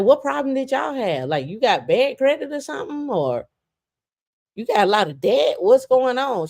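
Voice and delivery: high, light feigned innocence; mock innocent. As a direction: play dumb sweetly, high up.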